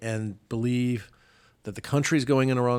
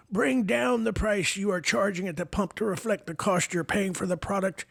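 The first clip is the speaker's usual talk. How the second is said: put-on high, creaky old man reading a tweet; Joe Biden old person voice; 9 semitones higher than usual. Host mocking the president's tweet, in a high old man voice. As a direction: play a doddering old president, pitched way up. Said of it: "in my Joe Biden old person voice".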